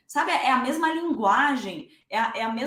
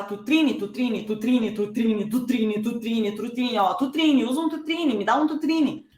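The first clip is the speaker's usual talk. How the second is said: drilling a new word. Shown as a demonstration. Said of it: "toda vez que eu mostrar isso".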